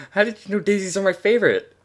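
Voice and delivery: high, happy Twilight; happy pony voice. Acted. Twilight chewing the daisies, high happy voice. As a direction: chirp it happily. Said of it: "happily chewing".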